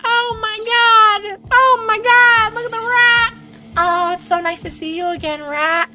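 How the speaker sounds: very high, squeaky and loud, overjoyed; high-pitched squeaky voice. Acted. Streamer overjoyed at catching a rat, squeaky high voice. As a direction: squeal with delight at the rat, slow and drawn out. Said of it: "I did some kind of high-pitched squeaky voice".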